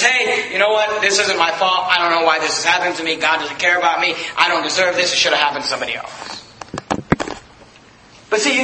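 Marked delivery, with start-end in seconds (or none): 0.0-6.1 lower, sulky grumbling of a hurt believer; bitter complaint. Retold or imitated. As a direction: mutter it as if the whole world wronged you. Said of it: "and just".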